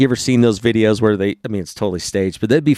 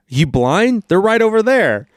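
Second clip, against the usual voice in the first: rude waiter; 8 semitones higher than usual. Retold or imitated. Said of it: "He's like".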